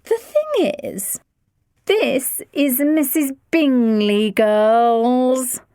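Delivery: high, slow, showy mother; proud introduction. A narrator's reading. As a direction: show off the guest to the girls. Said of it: "put the emphasis on the last word".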